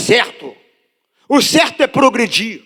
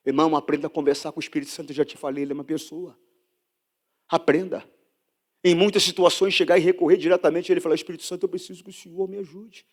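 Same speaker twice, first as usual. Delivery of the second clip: much lower and softer, quick; intimate counsel; 5 semitones lower, 8 dB quieter, much faster than usual. Real, not acted. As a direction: confide it gently. Conselho íntimo baixo. (conselho íntimo em voz baixa)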